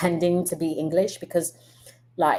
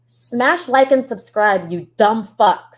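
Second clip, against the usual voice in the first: mock bossy demand; 2 semitones higher, 6 dB louder, slower than usual. Reads chat demand mockingly.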